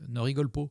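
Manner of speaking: "pas" said as "po", a rounded o like in "pot"; saying po for pas. Retold or imitated. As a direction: imitate the family way of saying "pas" as "po". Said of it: "on a tendance à dire po".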